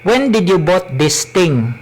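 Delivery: heavy Cebuano-accented English. Shown as a demonstration. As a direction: read it in thick Bisaya English. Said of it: "I will speak in my Cebuano accent".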